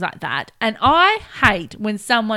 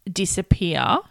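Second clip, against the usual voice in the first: whispered word; 3 semitones lower, slower than usual. Real, not acted.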